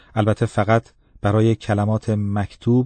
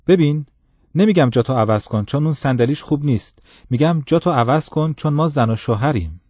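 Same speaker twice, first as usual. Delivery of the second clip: raised, insistent voice; firm insistence; 5 semitones higher than usual. Acted. Woman insists firmly.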